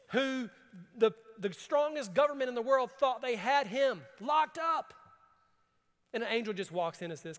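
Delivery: high, loud, fervent preaching; full-force preaching. Acted. Pastor preaching to the congregation, fervent and loud. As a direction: preach it out with rising fire.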